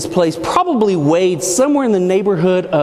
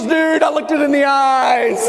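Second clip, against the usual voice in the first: mock frantic shout; 6 semitones higher than usual. Manager shouting in retold story.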